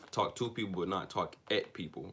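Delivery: "to" and "at" punched against each other; stress on TO and AT. Shown as a demonstration. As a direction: lean on "to", then on "at". Contrasts talking to versus at.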